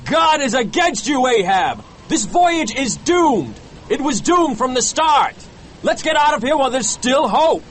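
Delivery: high, urgent pleading; desperate cry. A narrator's reading. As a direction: beg the captain over a storm. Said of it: "He grabbed Ahab's arm desperately and cried".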